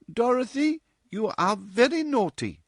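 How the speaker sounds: fond, no rebuke. A narrator's reading. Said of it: "There was no rebuke in Missus West's voice".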